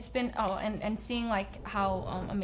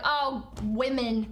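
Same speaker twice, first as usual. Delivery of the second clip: dismissive mock quote; 5 dB louder, much slower than usual. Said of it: "people on the internet are like".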